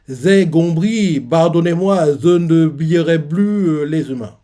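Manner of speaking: slow, slurred, pained apology; mumbled through injuries. Retold or imitated. Beaten giant repeats his apology, slurring in pain. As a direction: speak as if your jaw is broken. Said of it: "avec les blessures".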